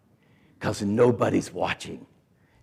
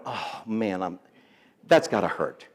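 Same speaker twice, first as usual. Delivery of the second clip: sympathetic wince; 5 semitones lower, 5 dB quieter than usual. Retold or imitated. Acts his sympathy at her breakup.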